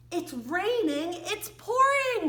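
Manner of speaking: rising title read, big leap up on pouring; title announced. Acted.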